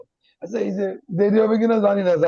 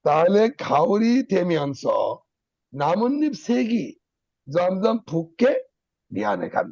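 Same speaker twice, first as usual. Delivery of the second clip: খাওরি থেমে আনছ, নামন্নিপ সেগি, জমজম ফুককে, বিয়ানে খান slow with a stop after each; four clear pauses; slower than usual. Shown as a demonstration. Teacher showing students where to pause, slow and deliberate. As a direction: read slowly, pausing only at the four breaks. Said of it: "আমি কি চারবার থামিয়েছি".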